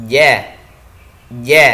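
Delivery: "Ja, ja" loud, with no air let out; jahr jim. Shown as a demonstration. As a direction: punch out "ja" with the breath held. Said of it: "nafas tertahan". ("ja" keras, nafas tertahan)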